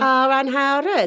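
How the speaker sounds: hammed-up sitcom Welsh, drawn out; Nessa. Shown as a demonstration. Showing off for co-host, hammed-up Welsh accent. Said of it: "Gavin and Stacey".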